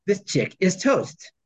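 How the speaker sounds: deadpan movie one-liner, drawn out; Venkman quote. Retold or imitated. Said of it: "The actual words spoken by Venkman".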